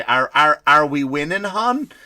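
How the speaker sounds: lightly voiced clueless wife, rising to a high hon; ditzy wife asking her husband about the game; a hint of a sweet, clueless wife. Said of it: "she'll say".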